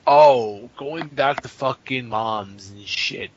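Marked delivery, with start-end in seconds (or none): 0.1-0.7 a high, loud burst of remembering; sudden loud oh. Real, not acted. Remembering moms, he blurts out a high, loud oh. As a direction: blurt it out, much higher and louder.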